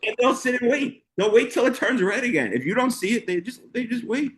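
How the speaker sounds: high mocking description. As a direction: poke fun at Alabama drivers idling at green. Mocking slow Alabama drivers.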